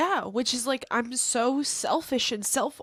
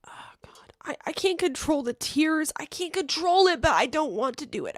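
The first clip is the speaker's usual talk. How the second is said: mock tearful; 3 semitones higher than usual. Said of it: "I want him to say".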